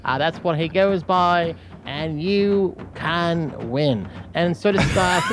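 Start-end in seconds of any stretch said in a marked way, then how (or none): 1.8-4.1 very slow fake British accent; Cornelius Finch. Shown as a demonstration. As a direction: draw it out in mock British. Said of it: "that's the accent".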